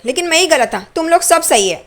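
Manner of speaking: a retold brother's bitter outburst, lightly acted; retold anger. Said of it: "और वो गुस्से से वहाँ से जा रहा होता है". (हल्का नकली गुस्सा)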